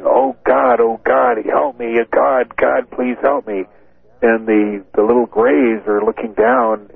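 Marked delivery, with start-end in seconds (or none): 0.0-3.6 retold terrified plea. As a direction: imitate a frightened man begging for help. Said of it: "he's screaming and he's saying".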